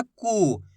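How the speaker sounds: कु said short, vowel not stretched; short u sound. Shown as a demonstration. Teacher showing students a short कु. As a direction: say कु quickly with a brief u. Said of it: "ज्यादा खींच के नहीं करना".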